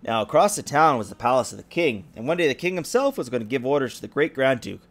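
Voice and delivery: lively storybook reading; story narration. A narrator's reading. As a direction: read it like a bedtime story. Reads fairy tale to child.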